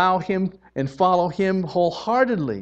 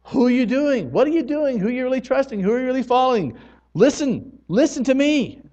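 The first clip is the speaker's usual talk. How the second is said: much higher, urgent divine challenge; voice of God; 7 semitones higher than usual. Retold or imitated. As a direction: press the hearer with God's questions. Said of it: "the Lord says".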